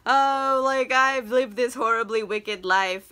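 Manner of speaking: lightly hammed self-pitying lament; mock remorse. Dorian regretting his wicked life, mildly mock-remorseful. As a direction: moan a little, as if full of regret. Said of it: "he's just feeling real bad".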